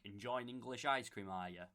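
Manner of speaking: "Enjoying English ice cream" run together at normal speed; sped up. Shown as a demonstration. Actor speeding up the coached sentence, joined-up delivery. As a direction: stitch "Enjoying English ice cream" into one fluent phrase. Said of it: "So when I speed it up".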